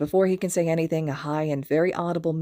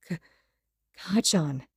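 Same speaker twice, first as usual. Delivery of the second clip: croaking. A narrator's reading. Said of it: "he croaks".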